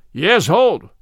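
loud call to stop the fight; forceful narrated cry. A narrator's reading. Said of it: "cried Little John".

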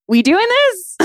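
hammed-up squeaky "we doing this?"; mock impatient question. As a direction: poke at him like a fed-up girlfriend. Mocks her past self.

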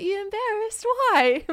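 very high, incredulous mock questioning; high-pitched teasing impression of his reaction; imitated boyfriend. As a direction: squeak it out as the puzzled boyfriend. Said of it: "he'd be like".

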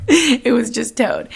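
slow, laughing through it. Real, not acted. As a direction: laugh it off, slowly. Laughing at the mishap.

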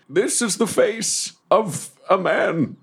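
hammed-up leading-man declamation; dramatic reveal. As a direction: announce it grandly, word by word. Deathwolf's dramatic face reveal.

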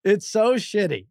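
laughing through the words, incredulous; can't explain it for laughing. Real, not acted. Dad describing the awful Atari game, laughing.

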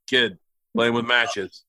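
a dad grumbling darkly over a folder, quiet and slow; lightly voiced dark dad, low and hushed; grim dad. Dad voiced explaining the photo.

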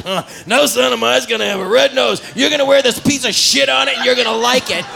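lightly acted stern dad; lightly voiced father. Comic plays Rudolph's father ordering his son, mildly stern. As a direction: lay down the law as a comic father. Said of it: "And the father's like".

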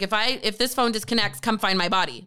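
low, matter-of-fact emergency report; serious instruction to a dispatcher, retold; dead serious. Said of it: "I'm not even joking".

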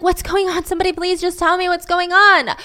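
high, pleading, bewildered; retold confusion. Confused roommate begging the others for news, retold pleading. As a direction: imitate someone desperate for an answer. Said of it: "Amanda's confused".

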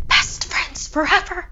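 eerie ghostly voice. A narrator's reading. Final ghostly echo.

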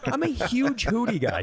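ordinary delivery

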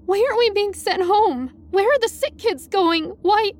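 high, frightened string of questions; squeaky and terrified. A narrator's reading. Student questioning physics teacher, squeaky and terrified. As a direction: plead for answers in a squeaky, scared voice. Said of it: "how squeaky and terrified my voice came out".

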